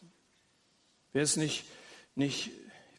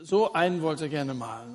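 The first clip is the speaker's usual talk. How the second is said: ordinary talk, nothing marked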